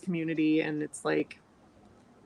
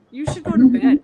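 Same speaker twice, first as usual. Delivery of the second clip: loud retold urging; 7 semitones higher, 14 dB louder than usual. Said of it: "I'm like".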